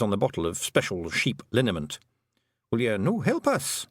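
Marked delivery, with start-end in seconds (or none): 2.7-3.9 put-on high, lilting Scots-accented little man; a cheeky tiny clansman owning up; wee Scottish Feegle. Feegle chief confessing to the young witch, high Scots voice.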